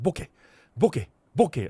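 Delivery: quick, short "bokeh", both syllables run together; very fast bokeh. Retold or imitated. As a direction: imitate a rapid "bokeh". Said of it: "He said it faster, right? Very fast".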